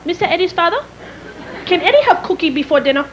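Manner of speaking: questioning, in a put-on East Asian accent; imitated East Asian accent. Housekeeper asks father, in imitated East Asian accent. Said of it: "a little Oriental woman".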